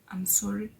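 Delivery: hushed, unvoiced sorry; whispering sorry to the boss; whispered apology. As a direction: breathe the apology out.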